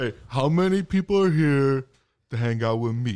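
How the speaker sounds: low, faked put-on voice. Imitating the guy who came in: Scott Hall impression. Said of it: "sound like Scott Hall".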